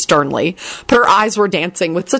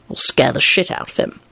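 whispered; 3 semitones lower than usual. Acted. Warning aside to Kingsley.

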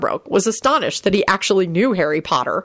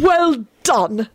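beaming praise, pitched up; Dumbledore; 6 semitones higher than usual. A narrator's reading. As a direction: praise with open delight. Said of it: "Dumbledore beamed".

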